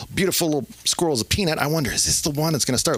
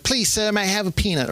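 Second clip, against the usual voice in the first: put-on politely begging in an English accent; higher-pitched English-accented plea; 6 semitones higher than usual. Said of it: "give them an English accent".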